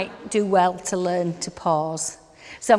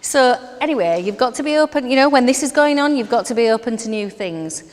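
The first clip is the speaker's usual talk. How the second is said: louder and higher, urging; emphatic; 4 semitones higher, 7 dB louder than usual. Real, not acted. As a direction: push the point with energy. Urging audience, rising energy.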